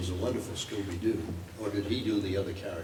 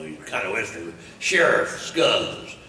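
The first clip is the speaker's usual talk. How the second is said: talking around a cigar; words through clenched teeth; pen in teeth; 7 dB louder, slower than usual. Acted. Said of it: "the cigar in his mouth".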